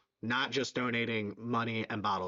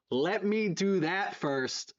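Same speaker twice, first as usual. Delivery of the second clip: higher and slow, stretching each word; slow, drawn-out repeat; 5 semitones higher, much slower than usual. Real, not acted. Streamer teasing chat before the shot, slow and drawn out. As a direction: drag it out, teasing the wait.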